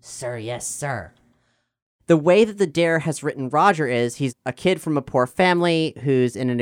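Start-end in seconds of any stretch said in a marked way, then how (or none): 0.0-1.1 drill sergeant. Acted. Mock military answer.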